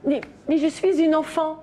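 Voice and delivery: put-on a light touch of the little girl; child's voice. Nanny lightly voicing the girl saying she's a child. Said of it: "Faites bien, enfant de cinq ans".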